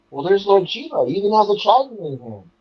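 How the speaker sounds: high, quick, amazed exclamation; excited recognition. Retold or imitated. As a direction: blurt it out as if spotting someone famous.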